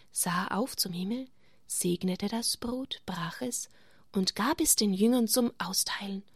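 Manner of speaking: put-on gentle storytelling for children; story narration. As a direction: tell it like a bedtime Bible story. Reading Bible story to children.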